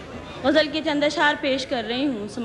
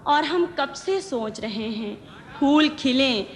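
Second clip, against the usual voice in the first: ghazal recitation; slower than usual. Acted. Poet presenting her ghazal to the gathering, measured recitation. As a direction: recite each line deliberately, pausing between phrases.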